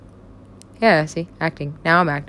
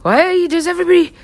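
high, fast, incredulous outburst; exasperated quote; 12 semitones higher, 5 dB louder, faster than usual. Retold or imitated. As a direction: rattle it off in high disbelief. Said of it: "it's like".

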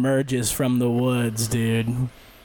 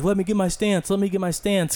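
mock Corey; 6 semitones higher than usual. Corey pleading mid-fight.

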